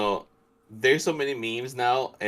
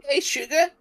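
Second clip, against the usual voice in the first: higher-pitched Southern sweet-talk attempt; Southern accent; 3 dB louder than usual. Shown as a demonstration. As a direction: try a Southern belle greeting, pitched well up. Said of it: "I always like the Southern accent".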